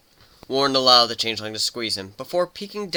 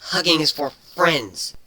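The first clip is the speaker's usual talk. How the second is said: sullen and sulky; 5 semitones higher, 4 dB louder, slower than usual. Acted. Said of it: "her tone sullen and skulky".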